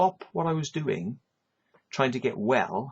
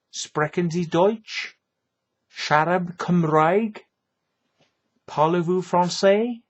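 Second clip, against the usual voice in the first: mocking slow questions; 5 semitones higher, 5 dB louder, slower than usual. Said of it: "this is what I tell people".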